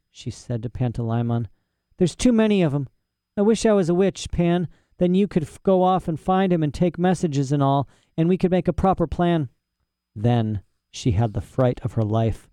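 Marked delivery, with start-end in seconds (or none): 2.0-9.5 put-on higher-pitched girl's voice, fretting to her companion; worried young heroine. Lyra confiding her wish to Pantalaimon, worried. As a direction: speak up high as an anxious girl.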